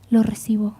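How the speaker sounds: softly whispered; a hushed aside of humble acceptance. Acted. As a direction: whisper it, letting it sink in. Quiet acceptance of correction.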